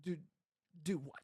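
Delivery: soft, low puzzled question; baffled. Retold or imitated. Left baffled by a friend's bare instruction, puzzled. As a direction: ask it haltingly, at a loss.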